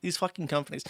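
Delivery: loud, slow, seething; real anger, every word hammered; angry outburst. Real, not acted. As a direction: spit it out, slow and furious. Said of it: "I actually get genuinely angry".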